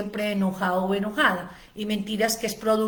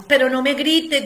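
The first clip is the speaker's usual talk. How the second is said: mock protest; 3 semitones higher, 5 dB louder than usual. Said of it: "dice la pareja".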